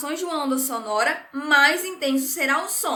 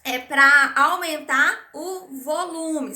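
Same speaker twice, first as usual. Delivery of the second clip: slow and clear; 3 dB louder, slower than usual. Shown as a demonstration. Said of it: "nós pedimos assim".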